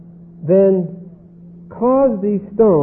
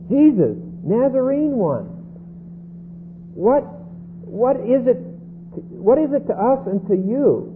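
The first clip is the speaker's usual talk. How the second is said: higher-pitched mock demon cry; 3 semitones higher than usual. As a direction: voice the demon calling out to Jesus. Demon cries out in synagogue.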